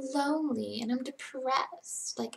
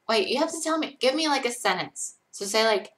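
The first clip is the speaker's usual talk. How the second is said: normal talking voice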